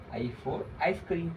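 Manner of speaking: "I for ice cream" spelled out very slowly, each word drawn apart; slow dictation. Shown as a demonstration. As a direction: say "I for ice cream" slowly so kids can repeat. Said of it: "अब अगला अक्षर है I for ice cream".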